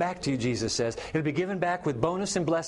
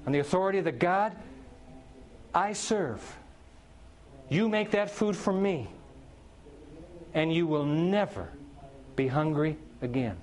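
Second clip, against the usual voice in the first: authoritative prophet. Retold or imitated. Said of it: "He says".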